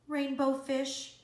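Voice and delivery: high eager call after him. Acted. Little blue fish calling after the rainbow fish, eager call. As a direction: call out to get his attention.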